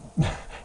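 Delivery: brief breathy laugh; a quick unvoiced chuckle to yourself; small real laugh; short chuckle. Real, not acted. Amused at seller's many games.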